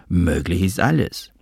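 breathy hushed whisper. Acted. Father whispers to his son, hushed whisper. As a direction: breathe it out without voice.

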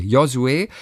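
Josué said the Spanish way with ho-SWEH, stress on the last syllable; Josué as jo-su-É with the weight on the final é; Spanish name. Shown as a demonstration. Host answering the co-host's question, says the son's name in Spanish. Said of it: "Wie würdest du ihn aussprechen?".

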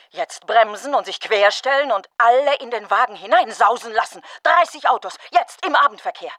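carried-away fantasy. Acted. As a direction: relish the imagined crash, building up. Imagining a pile-up, carried away. (begeistert und lauter, malt sich die Massenkarambolage aus)

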